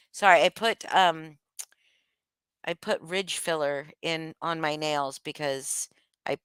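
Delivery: ordinary talk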